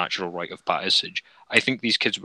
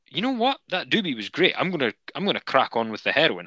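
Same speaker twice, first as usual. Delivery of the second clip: lilting, higher-pitched imitation of a keen user; mock carefree enthusiasm; 5 semitones higher than usual. Imagined user deciding to try harder drugs, mock carefree. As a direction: play up a breezy, careless decision.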